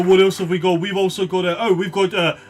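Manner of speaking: put-on gnome shopkeeper in rough Birmingham accent; lightly put-on Birmingham accent; unsure Birmingham accent. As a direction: wobbly attempt at Birmingham or Yorkshire accent. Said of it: "I don't know what accent this is".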